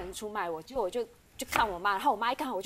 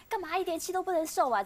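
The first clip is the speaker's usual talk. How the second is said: higher-pitched imitated scolding; angrier husband; 8 semitones higher than usual. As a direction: imitate an irritated husband's nagging. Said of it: "他就更气".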